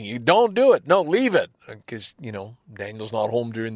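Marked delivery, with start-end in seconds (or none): 0.0-1.5 yelling. Retold or imitated. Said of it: "me yelling".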